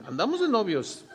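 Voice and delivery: mock-proud giggle, as if newly in love; laughing as she boasts of dating; laughing wife.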